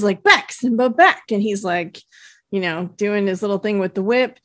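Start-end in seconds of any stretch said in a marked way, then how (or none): 0.2-1.2 higher, louder "back" at the lion; retold tamer shout; mock lion-tamer command. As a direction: shoo the lion back, imitating Shaggy.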